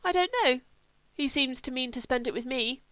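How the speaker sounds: high, wistful invalid; lightly voiced Sebastian. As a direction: lightly play a vague, dreamy friend.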